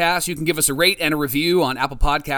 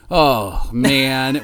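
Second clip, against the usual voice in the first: muffled groan through hands over face; 3 semitones lower than usual. Real, not acted. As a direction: groan it into your palms. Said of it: "I have my hands over my face".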